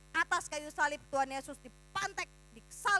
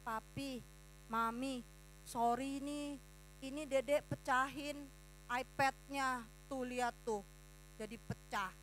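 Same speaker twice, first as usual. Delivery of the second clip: timid confession; 3 semitones lower, 8 dB quieter than usual. Retold or imitated. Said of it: "kamu ngomong".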